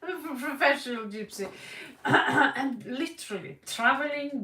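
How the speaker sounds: words said through laughter, quick; laughing at her own joke. Real, not acted. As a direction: giggle while saying it.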